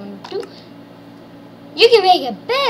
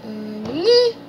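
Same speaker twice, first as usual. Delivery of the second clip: ordinary talk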